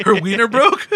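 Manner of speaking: rising disbelieving question; incredulous. Real, not acted. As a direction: ask it in amused disbelief.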